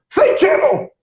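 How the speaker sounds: high barked command; retold military shout. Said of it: "alguém gritava assim". (grito de comando militar)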